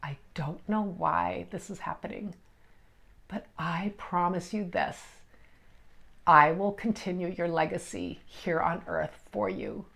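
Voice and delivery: tearful prayer. Retold or imitated. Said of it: "and I was just crying".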